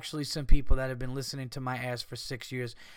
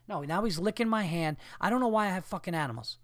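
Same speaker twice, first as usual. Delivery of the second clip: exasperated muttering; 4 semitones higher, faster than usual. Retold or imitated. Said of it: "you ever just ask myself".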